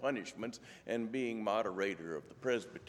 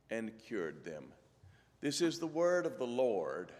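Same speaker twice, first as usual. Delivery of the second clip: measured, clearly projected Bible reading; scripture reading. Acted. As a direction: read scripture aloud to a congregation. Reads scripture to congregation.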